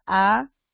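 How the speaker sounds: alaraca broken into a, la, ra, ca with long pauses; a... la... ra... ca, each syllable on its own. Shown as a demonstration. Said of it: "¿Cómo lo separo?".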